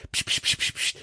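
soft voiceless psst, over and over; whispered shushing. Retold or imitated. Boy hushing his family while taping a song, whispered. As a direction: hush the whole house under your breath. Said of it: "ich bin dann immer rumgelaufen".

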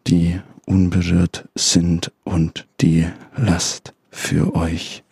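slow, grave scripture reading; solemn Bible reading. Acted. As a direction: read it like a pastor from the pulpit. (feierliche Bibellesung)

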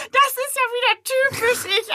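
said through high laughter; laughing. Retold or imitated. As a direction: giggle it out at yourself. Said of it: "musste ich so lachen". (lachend und hoch gesagt)

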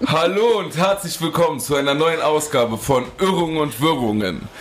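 podcast host intro. Acted. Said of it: "Super Intro".

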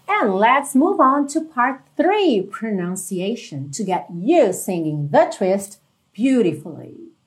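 slowly, clearly articulated English; slow teacher English. Real, not acted. Teacher introducing the pronunciation part to students, slow and clear. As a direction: announce the next part at an unhurried pace.

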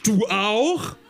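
high-pitched astonished question; mild shriek. A narrator's reading. Tina learns it happened to him too, crying out. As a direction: keep the storybook cry up high. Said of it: "schrie Tina".

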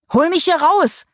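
high desperate plea. A narrator's reading. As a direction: beg to be pulled out. Trapped Paul pleads.

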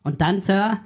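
lightly voiced eager subordinate; hammed-up yes-sir soldier; clipped nasal officer. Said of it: "machen wir kurz einen Bundeswehr-Podcast nach".

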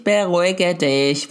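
slow, drawn-out BERUHIGE DICH; self-calming. Retold or imitated. Mother telling herself to calm down, slow and deliberate. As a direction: stretch "beruhige dich" out to talk yourself down. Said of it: "denke ich".

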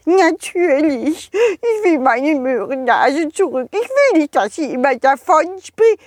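high, pleading snowman voice; a small snowman begging for help; little snowman voice. Acted. (hohe, flehende Schneemannstimme)

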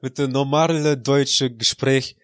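mock Russian accent in broken German; fake Russian accent. Plays along with the segue in a Russian accent. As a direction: announce the old self in mock Russian. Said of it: "Raus mit dem scheiß russischen Akzent".

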